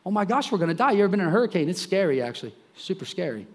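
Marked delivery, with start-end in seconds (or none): 0.1-0.9 higher-pitched mild panic; imitating people scared for their lives; mock panic. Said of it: "these people are scared to death".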